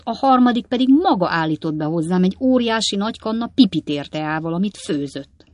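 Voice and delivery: lightly voiced father, lively grievance; a touch of indignant old-man complaint; harried old father. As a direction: list the outrages to your son. Old Weller recounts his pursuers.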